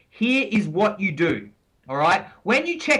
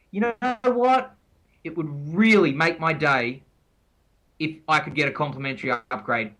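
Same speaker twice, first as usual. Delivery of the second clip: sweet request; 6 semitones lower than usual. Shown as a demonstration. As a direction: coax the desk agent gently. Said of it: "you say something like".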